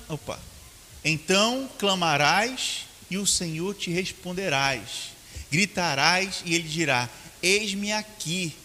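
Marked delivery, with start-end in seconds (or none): 1.0-8.5 slow, weighty reading of the verse; solemn scripture reading. Shown as a demonstration. Pastor reads the verse to the church, slow and solemn. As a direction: read the verse slowly to the congregation. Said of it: "no original está escrito".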